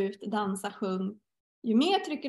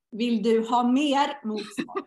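pointed soul question; 5 dB louder, much slower than usual. Retold or imitated. Soul challenging her resistance, slow and louder. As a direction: spell it out slowly, leaning in. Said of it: "får jag svaret så här".

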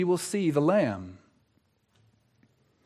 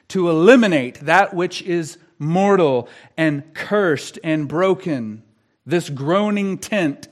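emphatic pulpit delivery with weighty pauses; impassioned preaching. Real, not acted. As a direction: preach it in deliberate, forceful phrases. Preaches with mounting force.

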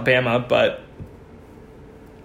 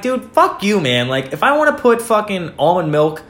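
retold indignant outburst; pissed; 2 semitones higher than usual. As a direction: act out being pissed off, without yelling. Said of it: "I was so pissed".

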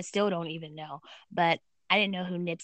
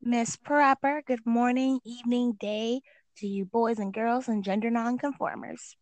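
announcer voice; 5 semitones higher, 3 dB louder, slower than usual. Acted. Podcast host intro persona.

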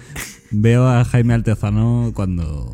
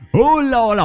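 high playful hello; 14 semitones higher than usual. Acted. Playful greeting on air.

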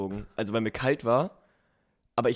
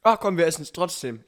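excited; 7 semitones higher, 7 dB louder than usual. Retold or imitated. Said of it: "Und mein Freund und ich".

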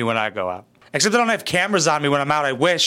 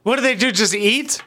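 incredulous bystander; 6 semitones higher than usual. Retold or imitated. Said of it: "I'd be like".

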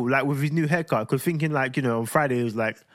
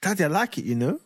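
lightly voiced little boy; a hint of a child's voice, lifting higher; imitating pleased son; 3 semitones higher than usual. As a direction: play a kid happily approving. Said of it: "he's just like".

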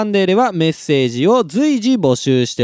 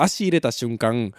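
ordinary talk, nothing marked

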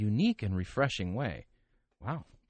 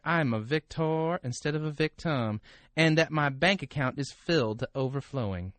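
Texas drawl; 3 semitones higher than usual. Acted. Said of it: "I smile when I say it".

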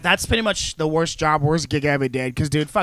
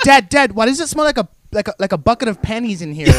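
put-on higher, whiny child asking dad; whiny kid voice; 4 semitones higher than usual. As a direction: whine like a little kid. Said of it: "you're like".

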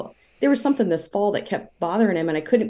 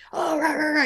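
higher, playful imitation of a kid grumbling; mock mad grumble; 10 semitones higher than usual. Mother imitating her son getting mad over the popcorn, lightly mocking. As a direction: toss off the kid's angry noises in fun. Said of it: "you know, getting all mad".

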